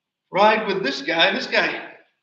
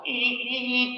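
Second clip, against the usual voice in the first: horn imitation; 6 semitones higher, slower than usual. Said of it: "the guy in the combine will honk his horn".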